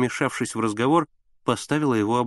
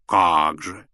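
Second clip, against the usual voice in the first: grand, lower exclamation; with pathos; 5 semitones lower, 3 dB louder than usual. A narrator's reading. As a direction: declaim it with pomp. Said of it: "с пафосом ответила старушка".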